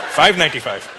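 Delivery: Indian shopkeeper naming a price; thick put-on Indian accent; hammed-up Indian accent. Shopkeeper at the till, hammed-up Indian accent. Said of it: "we really ham it up too".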